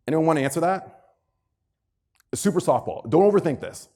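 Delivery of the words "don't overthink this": ordinary delivery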